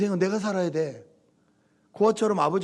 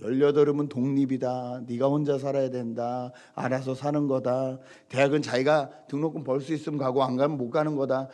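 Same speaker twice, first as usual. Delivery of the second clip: stern father; 4 semitones lower than usual. Retold or imitated. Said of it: "교육을 강하게 시켰습니다".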